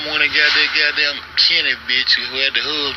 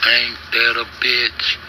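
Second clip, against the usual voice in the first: ordinary talk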